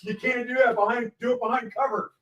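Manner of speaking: high-pitched imitation of a son; excited retelling of a boy's instruction; imitated son. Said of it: "pops him with a Nerf gun and goes".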